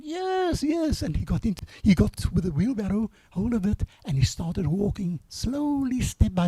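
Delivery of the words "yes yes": high eager crowd answer; lightly voiced crowd shouting yes; crowd calling back. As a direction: voice the cheering crowd from below.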